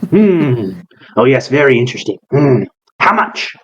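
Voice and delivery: high, fussy voice jumping up on how much; demanding a price for the dog; greedy eccentric breeder. Acted. GM voicing Callus.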